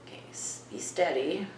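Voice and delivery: hushed breathy whisper, unvoiced; a quiet whisper so as not to disturb. Real, not acted. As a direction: whisper to steady yourself. Hushed during spirit box session.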